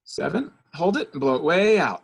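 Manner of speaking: high held count then loud blow out; coaching a breath hold then exhale; guided breath count. Shown as a demonstration. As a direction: lead the breath, rising then blowing out. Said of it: "So suck in".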